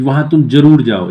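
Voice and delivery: "ज़रूर" hit with a firm falling stress. Shown as a demonstration. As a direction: insist on "ज़रूर" like a firm order. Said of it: "इसको अगर हम जोर दे के बोलें". ("ज़रूर" पर ज़ोर देकर)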